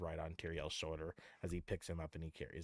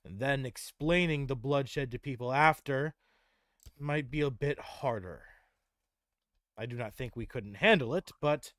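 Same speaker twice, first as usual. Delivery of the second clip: higher, louder measured counsel; Tyrael's voice; 4 semitones higher, 7 dB louder than usual. Acted. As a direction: weigh the plan gravely. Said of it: "Tyrael would say".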